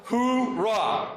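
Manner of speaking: high, loud army cheer; loud gung-ho soldier. Shown as a demonstration. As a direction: shout it like a drill sergeant. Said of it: "Come on, do this one more time".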